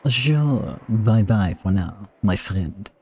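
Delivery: lightly voiced, slow farewell; put-on character voice. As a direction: draw out the goodbye in character. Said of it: "Please do not make me talk like that".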